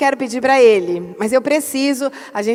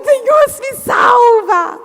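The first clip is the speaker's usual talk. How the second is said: high, loud cry for help; panicked plea; 11 semitones higher, 5 dB louder, much slower than usual. Retold or imitated. Pastor reliving election-day panic, crying out to God. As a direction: squeal it out like a desperate prayer.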